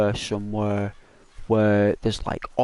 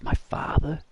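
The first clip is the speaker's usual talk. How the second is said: Simba's reply; 5 semitones higher than usual. Retold or imitated. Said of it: "he says".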